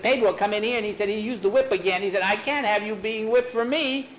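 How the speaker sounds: high, rushed, worried objection; agitated protest. Acted. Protesting fear of friend being whipped.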